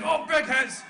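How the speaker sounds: loud, high burst over a big hit; excited call. Real, not acted. Commentator reacting to a big hit, excited.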